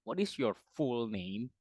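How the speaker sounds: "full" said with the long vowel of "fool"; slow repeat of the question, "full" as "fool"; mispronounced question. Retold or imitated. Tutor repeating a learner's question, "full" mispronounced as "fool". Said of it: "Full itu artinya is like a stupid".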